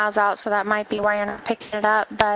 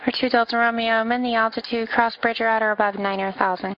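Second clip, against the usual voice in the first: air traffic control radio. Acted. Controller reading clearances on frequency.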